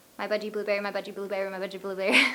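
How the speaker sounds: very fast, rapid-fire, rattled off. Speaker tries saying a product name three times in a row, very fast. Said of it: "Think I can say it three times fast?".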